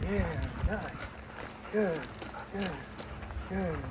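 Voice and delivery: soft, easy praise to settle the dog; calm praise. Real, not acted. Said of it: "slow, calm obedience session".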